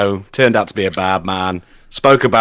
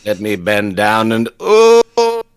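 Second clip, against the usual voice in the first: Vincent Price impression; 3 semitones higher, slower than usual. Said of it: "how Vincent Price sounds".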